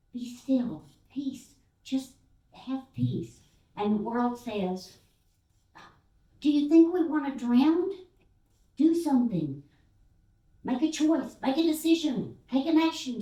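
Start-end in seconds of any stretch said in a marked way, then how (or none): 0.1-3.4 soothing urging. Acted. Us urging peace. 6.4-13.2 loud, high, insistent demands; demanding world. Acted. The world pressing us to act, loud and insistent.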